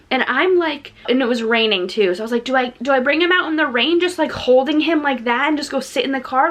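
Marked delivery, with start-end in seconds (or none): 2.4-6.5 retold panic. Acting out her panicked indecision.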